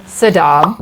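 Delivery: "Sodom" said like Saddam, suh-DAHM; mispronounced Sodom. Real, not acted. Host flubbing the intro, "Sodom" as suh-DAHM. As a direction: put the stress on the end of "Sodom". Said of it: "No, Sodom".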